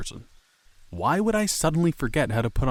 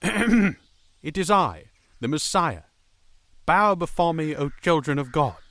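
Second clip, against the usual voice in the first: dark lord; 4 semitones higher, slower than usual. Acted. Messiah repeats grand proclamation.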